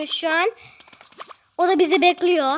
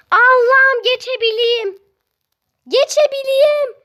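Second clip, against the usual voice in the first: pleading prayer; 4 semitones higher, 4 dB louder than usual. Real, not acted. Begging the game to let him pass.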